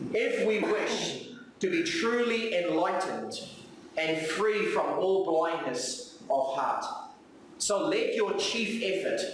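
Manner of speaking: put-on slow, deliberate reading of an old text; solemn reading. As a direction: read it out slowly, weighing each phrase. Reading devotional text slowly.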